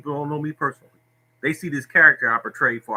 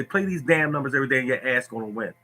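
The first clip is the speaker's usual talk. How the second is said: blunt order. Shown as a demonstration. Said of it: "No, I'm gonna say".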